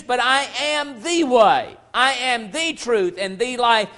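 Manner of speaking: "the" hit hard before "way", slow; slow and firm on "the way"; stress on THE way. Shown as a demonstration. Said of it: "contrast with one of the ways".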